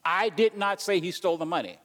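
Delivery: I did not say he stole the money with "did" punched; stress on did. Shown as a demonstration. Preacher showing the congregation stress on "did". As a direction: lean on "did" to deny it. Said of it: "You see how you can say different things".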